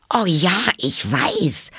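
high, loud burst of realisation; exclaiming. A narrator's reading. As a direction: cry out as the answer suddenly comes. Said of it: "rief Alice aus". (begeistert ausgerufen)

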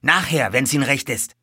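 high, loud stablehand voice; nervous stablehand. A narrator's reading. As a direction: refuse anxiously, afraid for your job.

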